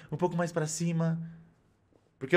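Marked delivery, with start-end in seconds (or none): 0.1-1.2 softer, higher sweetened woman's voice; man doing a woman's voice. Shown as a demonstration. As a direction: sweeten it like a girl character. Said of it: "eu sempre tento adocicar um pouco a minha voz".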